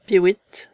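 high, loud imitated bird call; lapwing cry. A narrator's reading. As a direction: pipe it like a lapwing. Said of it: "siffla un vanneau dans le lointain". (cri aigu de vanneau)

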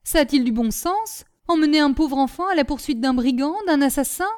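high, loud reproach; indignant scolding. A narrator's reading. Nanon berating the brigadier over endangering a child, scolding. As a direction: pile up the outrage.

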